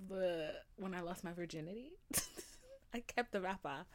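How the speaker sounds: giggling through the confession; embarrassed laughing. Real, not acted. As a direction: laugh it out, sheepish.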